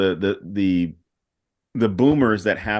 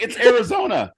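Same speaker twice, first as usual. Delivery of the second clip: high, louder obvious answer; matter-of-fact retort; 11 semitones higher, 4 dB louder than usual. Pretend. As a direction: state it as the obvious excuse. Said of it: "I'm like".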